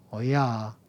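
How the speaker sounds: 어이야 said as the Gyeongsang grandma's drawn-out yes; Gyeongsang dialect. Shown as a demonstration. Preacher showing how Gyeongsang grandmas say 어이야, in dialect. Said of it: "경상도 말로 이 오냐를".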